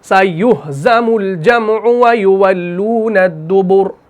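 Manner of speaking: slow, drawn-out tajweed recitation; Quran recitation. Shown as a demonstration. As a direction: chant the verse slowly. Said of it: "रॉ को हम मोटा कर रहे हैं".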